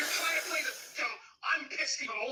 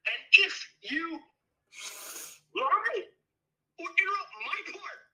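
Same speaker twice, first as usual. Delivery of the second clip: crying; 4 dB louder, slower than usual. Real, not acted. Crying argument on call.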